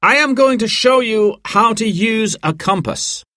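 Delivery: high, projected group-briefing voice; mountain guide presenting. A narrator's reading. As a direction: introduce yourself to guests, pitched well up. Guide Dan briefs the guests.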